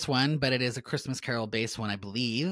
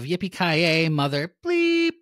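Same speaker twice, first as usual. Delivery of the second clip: movie catchphrase; 5 semitones higher, 4 dB louder, slower than usual. Retold or imitated. Quoting Die Hard catchphrase.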